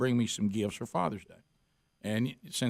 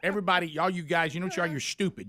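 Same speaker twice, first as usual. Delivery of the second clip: blunt preacher impression; 5 semitones higher than usual. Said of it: "Steve's just so".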